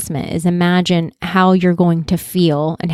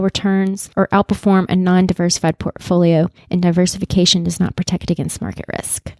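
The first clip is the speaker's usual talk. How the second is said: rapid legal fine print voice; disclaimer read. Acted. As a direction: rattle off the fine print in one breath. Reads legal disclaimer fast.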